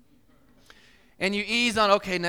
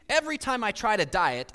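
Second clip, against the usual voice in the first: quoting a big guy; 3 semitones higher, 4 dB louder than usual. Retold or imitated. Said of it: "And his quote said this".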